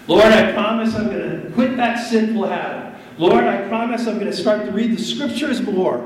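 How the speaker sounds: earnest, mounting vow to God; fervent vow. Acted. Believer making big promises to the Lord, fervent and rising.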